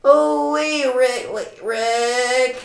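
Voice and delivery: high, loud cartoon catchphrase; Mister Poopy Butthole. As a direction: call out in a high silly impression. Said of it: "That was terrible".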